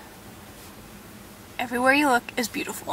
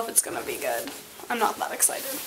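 whispering; 6 semitones lower, 11 dB quieter, faster than usual. Real, not acted. Unsure about juice.

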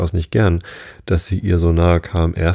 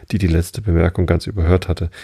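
usual speaking voice

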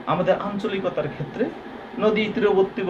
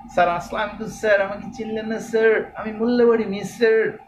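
higher, arty put-on student voice; affected, showy greeting to a teacher, pitched up; affected student imitation; 4 semitones higher than usual. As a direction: mimic a student overdoing the style. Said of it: "একটু art করে বলতে গিয়ে".

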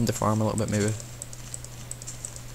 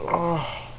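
yawn; 6 semitones higher, 4 dB quieter than usual. Real, not acted. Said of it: "just yawning".

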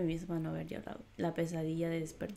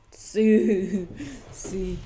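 excited yes; 3 semitones higher, 11 dB louder than usual. Real, not acted. Cheering a fight scene.

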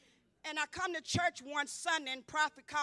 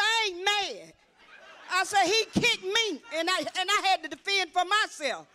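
laughing protest; 3 semitones higher, 5 dB louder than usual. Retold or imitated.

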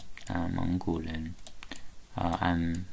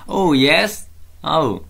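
laughing; 9 semitones higher, 9 dB louder, slower than usual. Real, not acted. Teacher delighted at student's answer.

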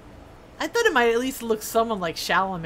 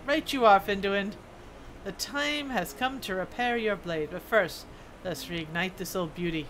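lightly voiced dwarf smith, storytelling; dwarf smith character. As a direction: read it as an earnest old-world craftsman.

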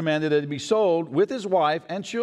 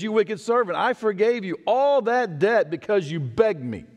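irate king; 8 semitones higher than usual. Acted. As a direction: bear down on the wicked servant. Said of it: "and he's irate".

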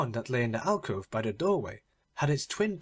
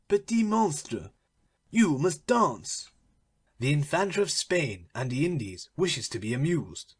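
stern uncle. Acted. Don Pedro commands the dwarf.

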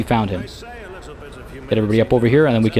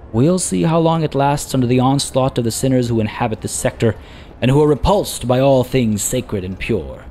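dry remark. Acted. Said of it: "then says dryly".

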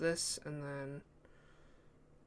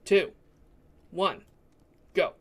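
louder, spaced-out countdown; 3 semitones higher, 9 dB louder, slower than usual. Real, not acted. Player counting the group in, measured countdown. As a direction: count it off word by word.

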